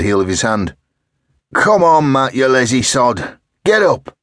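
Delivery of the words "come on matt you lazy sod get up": loud calling through a door; shouting. Acted. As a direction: yell for him to wake up. Hammering on locked door, calling.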